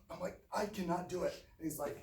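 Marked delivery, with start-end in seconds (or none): 0.5-1.3 higher-pitched protest; acting out a kid balking; pleading refusal. Scared kid refusing her dad's order, pleading.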